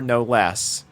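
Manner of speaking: ordinary delivery, nothing marked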